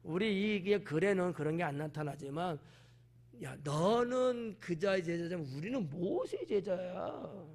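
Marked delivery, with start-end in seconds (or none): 3.4-7.5 slow, dismissive, leaning on 모세의; contemptuous put-down. Acted. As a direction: talk down to him slowly. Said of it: "상당히 권위적으로 지금 말하고".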